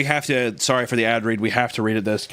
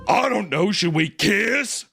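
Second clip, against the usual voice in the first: mock hesitant Mormon girls; 6 semitones higher, much slower than usual.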